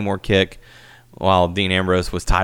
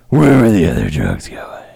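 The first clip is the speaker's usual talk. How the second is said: practiced bit voice; 2 semitones lower, 5 dB louder than usual. Pretend. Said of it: "I practiced on that one".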